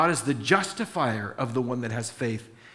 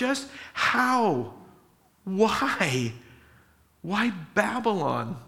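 raised, disbelieving questions, much higher; Habakkuk baffled, pushing back at God; incredulous protest; 4 semitones higher than usual. Retold or imitated. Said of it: "And Habakkuk says".

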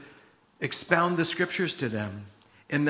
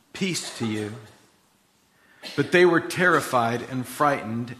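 measured, formal Bible reading; deliberate reading with spaced phrases; scripture reading. Acted. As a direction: read scripture aloud to a congregation.

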